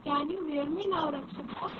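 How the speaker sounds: distorted call audio; glitching audio. Real, not acted. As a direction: voice breaking up over a bad line. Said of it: "Your voice is distorted".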